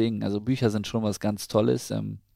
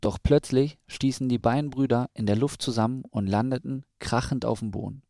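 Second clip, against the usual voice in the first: measured storybook narration with clear pauses; children's story reading; 3 semitones higher than usual. A narrator's reading. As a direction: read a picture book to a small child. Reads a children's story aloud.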